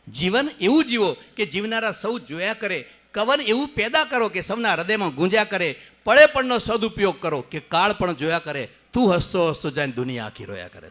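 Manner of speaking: declaimed verse, fuller voice; poem recital. Shown as a demonstration. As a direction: recite to the hall with feeling.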